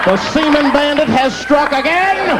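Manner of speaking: slow, gleeful villain boast; slow mock-proud announcement; proud burglar. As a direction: savor it like a cocky crook. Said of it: "Wait a minute".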